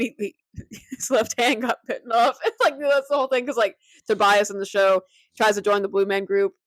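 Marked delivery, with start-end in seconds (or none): 0.0-3.5 laughing. Real, not acted. Teller cracks up at joke.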